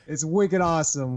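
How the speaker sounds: "wicked" said Boston-style, playful; Boston accent. Shown as a demonstration. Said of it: "say "wicked" in our sentences".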